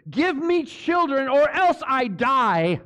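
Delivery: slow, high-pitched angry plea; angry demand. Acted. Preacher voicing Rachel's demand to Jacob, angry. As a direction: demand it angrily, dragging out the words. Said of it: "She was so angry".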